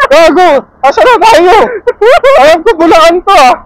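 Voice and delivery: high, loud and cracking up; real laughter spilling through startled words; laughing outburst. Real, not acted. Lost rider asks companion where they are, cracking up.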